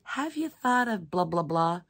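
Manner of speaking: high, chirpy mock viewer suggestion; imitating a viewer. Crafter voicing a viewer's helpful suggestion, high chirpy mock tone. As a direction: play a helpful viewer offering ideas. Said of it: "that you're like".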